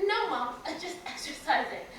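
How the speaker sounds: laughing cover-up to mom on the phone; laughing fib. Retold or imitated. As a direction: cover it up with a giggle. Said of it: "caught on the phone by mom".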